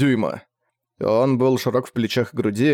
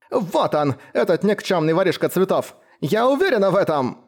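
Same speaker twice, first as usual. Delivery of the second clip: high, shrill-pitched crone screech; an old woman shrieking her accusation; 7 semitones higher than usual. A narrator's reading. Old woman accusing the biker, shrieking high. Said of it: "Визжала старуха".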